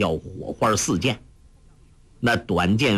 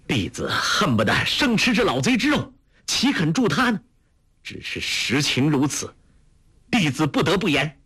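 higher, seething voice of a sworn enemy; a narrator's voiced bitter disciple; bitter hatred; 6 semitones higher than usual. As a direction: spit out the hatred. Disciple vows hatred of Huang Yaoshi.

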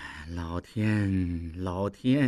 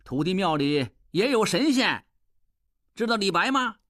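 gloating farewell; 3 semitones higher than usual. Acted. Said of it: "拱手笑道".

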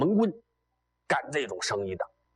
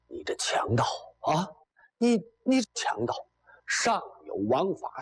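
indignant stammering protest, pitched up in bursts; acted outcry; 4 semitones higher than usual. Bound official denounces the bandit, high indignant outcry. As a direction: cry out as the outraged captive official. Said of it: "直喊呐".

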